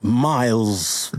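put-on slow, stagey British accent; mock British accent. Improviser introducing Shakespeare's son, mock British accent. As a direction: introduce the character in drawn-out British. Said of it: "You gotta do an accent".

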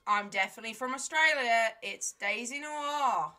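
slow put-on Australian accent. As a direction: drawl it like an Aussie. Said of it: "our best Australian accent".

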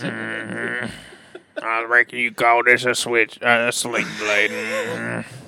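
Sling Blade drawl. Acted. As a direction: drawl it like a backwoods knife man. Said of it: "that's how he talks".

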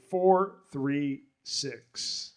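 numbers drawn out very slowly; slow announcement. Real, not acted. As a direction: read each number out slowly. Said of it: "reads ticket aloud".

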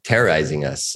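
lightly voiced grave elf queen; a hint of solemn movie narration; imitating Galadriel's grave warning in a dream; serious Galadriel. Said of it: "she gets all very serious".

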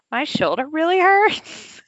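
high, slow whimpering complaint; whiny injured driver. Retold or imitated. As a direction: whine it like a hurt kid. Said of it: "Right, they said".

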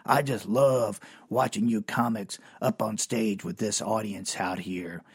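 big bar owner relishing the show; Smokin' Dave. Retold or imitated. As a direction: savor it like a bloodsport fan. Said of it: "He sat there and goes".

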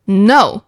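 "no" as an emphatic falling answer. Shown as a demonstration. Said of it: "the falling tone".

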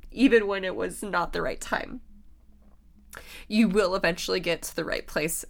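tearful, wavering voice; ugly crying. Real, not acted. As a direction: push through the tears. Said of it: "that's my little cry sesh".

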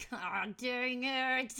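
slow, laughing curse at her own flub; laughing at herself. Real, not acted. Host fumbling her intro, curses through a laugh. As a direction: laugh it off after botching the intro.

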